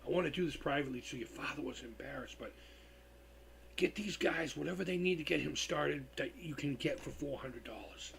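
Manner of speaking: quietly choked up. Real, not acted. Streamer retelling Dime's kindness, choked-up whisper. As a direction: hold back tears under a whisper. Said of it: "I'm getting choked up".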